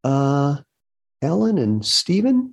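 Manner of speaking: high, slow imitation of mom; tentative recall. Mother trying her children's names, high and tentative.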